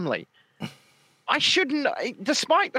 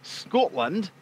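halting, exaggerated Scottish accent; mock Scottish accent; 3 semitones lower than usual. Host continuing his lesson in talking like John, mock Scottish accent. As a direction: mimic a Scot, piecing the phrase together. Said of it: "say words like John".

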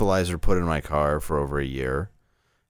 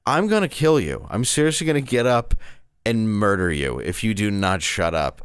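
threatening; 4 semitones higher than usual. Retold or imitated. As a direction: threaten like you mean it. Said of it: "I'm like".

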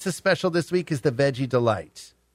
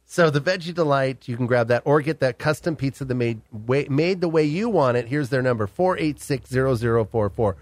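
radio contest promo. Acted. Host pitches call-in pizza giveaway.

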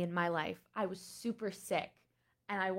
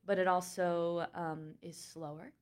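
trying out a slightly lower voice; gently lowered register demo; 2 semitones lower, faster than usual. Shown as a demonstration. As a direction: settle a little lower, taking your time. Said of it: "kind of lower a little bit".

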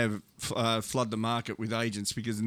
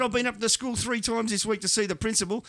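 building outraged rant; 8 semitones higher than usual. Retold or imitated. Father explains, building to outrage.

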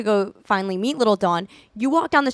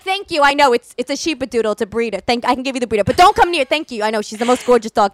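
imitating mom. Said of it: "She'll be like".

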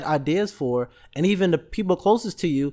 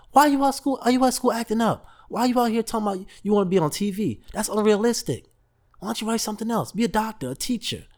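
mom scolding; 4 semitones higher than usual. Retold or imitated. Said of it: "his mom's yelling at him".

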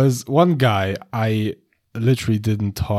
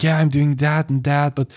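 high party guy; 4 semitones higher than usual. Retold or imitated. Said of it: "And he was like".

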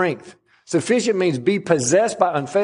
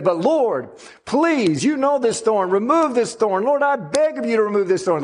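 begging prayer; 4 semitones higher than usual. Retold or imitated. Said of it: "and he prays again".

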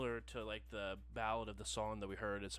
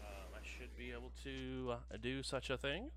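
customer service voice. Acted. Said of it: "familiar customer service voice".

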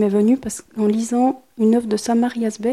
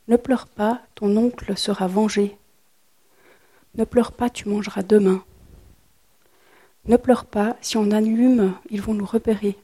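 literary reading. A narrator's reading. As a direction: let each Ne pleure pas land, then pause. Author reads her fragment aloud.

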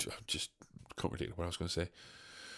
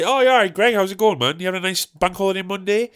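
chirpy shop worker; 5 semitones higher, faster than usual. Acted. Shop worker greeting a regular customer, chirpy. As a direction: make breezy small talk from behind the counter.

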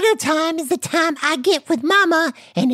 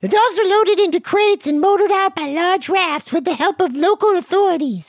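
steady newsreader cadence; news anchor read. Acted. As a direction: deliver the headline straight.

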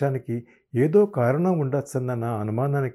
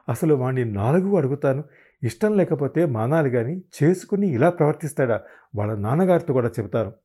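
angry; 2 semitones higher, 3 dB louder than usual. Acted. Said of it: "అన్నారు ఆమె కోపంగా".

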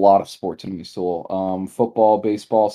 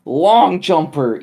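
higher-pitched hammed-up gushing parent; mock freaking out; 8 semitones higher, slower than usual. Track teammate imitating parents at the meet, mock freaking out. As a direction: imitate an overexcited sports parent, pitch swinging up. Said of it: "freaking out".

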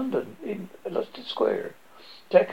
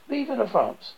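shout; 6 semitones higher, slower than usual. A narrator's reading. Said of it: "steps up and shouts".

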